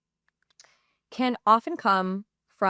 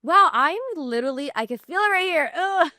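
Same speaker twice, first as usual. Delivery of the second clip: high, louder, overwhelmed; raised voice, choking up into a laugh; fighting back tears; 7 semitones higher, 5 dB louder than usual. Real, not acted. Podcaster feeling it well up, fighting back tears. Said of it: "try and get through this and not cry".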